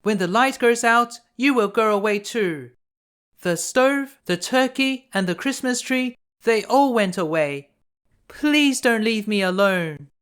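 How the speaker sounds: high, loud desperate plea; pleading girl. A narrator's reading. Freezing girl begging her grandmother, high and desperate. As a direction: beg as if she might vanish.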